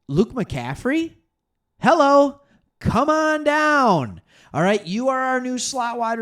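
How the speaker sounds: high, loud, slow announcer call; game show host. Pretend. Hyping the new slot receiver, loud game-show call. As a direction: welcome him like the next contestant.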